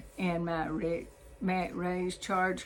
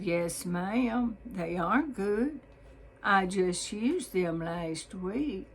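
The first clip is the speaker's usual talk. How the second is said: solemn reply; slower than usual. Retold or imitated. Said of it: "I solemnly replied".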